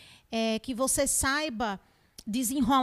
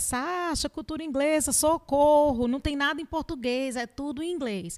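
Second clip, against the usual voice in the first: friend begging for help; 3 semitones higher than usual. Retold or imitated. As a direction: playfully imitate a friend pleading. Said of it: "Aí faz".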